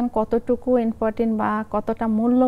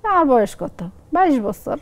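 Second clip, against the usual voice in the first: higher-pitched mother answering in Lakshmipur dialect; 4 semitones higher than usual. Shown as a demonstration. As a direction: play the mother in Lakshmipur accent, pitch falling on each answer. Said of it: "আর আমি আঞ্চলিক ভাষায় বলি". (লক্ষ্মীপুরের আঞ্চলিক টানে মায়ের জবাব)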